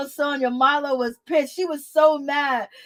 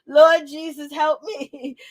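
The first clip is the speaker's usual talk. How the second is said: a loud, laughing cry to the Lord; loud laughing plea; loud exclamation; 2 semitones higher, 4 dB louder, slower than usual. Real, not acted. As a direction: call out to the Lord through laughter.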